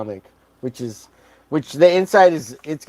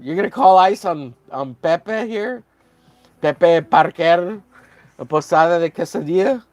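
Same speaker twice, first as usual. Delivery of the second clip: higher, slowed goofy voice; a lightly voiced incredulous buddy; mock character voice; 4 semitones higher, 3 dB louder than usual. Draw Zombie teasing the artist, mock high voice. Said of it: "says Draw Zombie".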